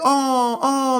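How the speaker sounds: high cooing mock women's voice. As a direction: coo like charmed ladies at the store.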